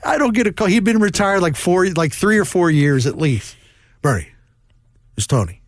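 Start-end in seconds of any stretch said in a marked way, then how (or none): 4.0-5.6 put-on lower, weary manager rehashing an old argument; lightly voiced old manager, exasperated; Tony La Russa impression. Retelling the manager's complaint call.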